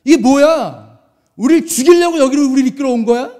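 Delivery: mildly heated retold protest; resentful complaint. Israelites blaming their leader at the sea, resentful complaint. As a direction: voice the crowd's grievance with some force. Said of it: "원망을 하기 시작합니다".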